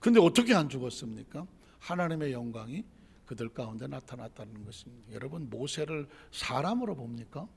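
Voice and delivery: usual speaking voice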